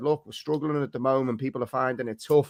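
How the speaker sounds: plain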